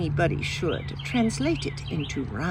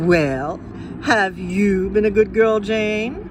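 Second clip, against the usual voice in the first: nagging grown-up; 5 dB louder, slower than usual. Retold or imitated. Adults nagging the child Jane.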